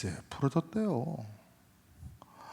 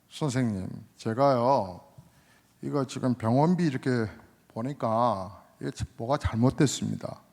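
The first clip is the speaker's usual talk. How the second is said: a retold patient complaining, a little louder; mock angry complaint; 3 dB louder than usual. Patient to doctor about the hospital bill, mildly angry complaint. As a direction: complain to the doctor with some heat. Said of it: "막 화를 내면서".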